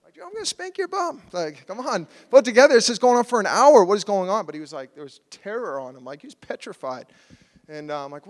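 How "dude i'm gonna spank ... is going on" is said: high exasperated outburst, growing loud; retold frustration. Father retelling his baby's night terrors, exasperated. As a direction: act out a parent at wit's end, louder and louder. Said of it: "it got so frustrating".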